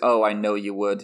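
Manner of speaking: acted villainous whisper. Quoting a favourite movie moment: whispering as Sidious. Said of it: "Sidious just whispers".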